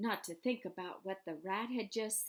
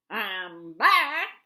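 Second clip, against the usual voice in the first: loud, booming husky voice; 14 dB louder than usual. A narrator reads the rat's line as he drags himself into the pen, husky Templeton voice. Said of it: "he said in a husky voice".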